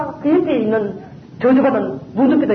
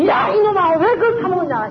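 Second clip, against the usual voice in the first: retold scolding; 6 semitones higher than usual. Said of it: "이렇게 화를 내는 거예요".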